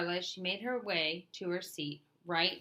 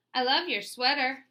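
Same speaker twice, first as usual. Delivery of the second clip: high, louder thrilled gush; gasping delight; 7 semitones higher, 8 dB louder than usual. A narrator's reading. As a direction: she is dazzled by his sweater. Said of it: "Carla gasped".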